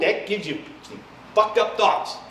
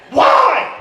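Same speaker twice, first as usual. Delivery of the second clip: very high loud Why?; incredulous shout; 7 dB louder than usual. Acted. Demanding why Dorothy left Oz, a very high shout. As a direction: demand it in disbelief. Rant peak.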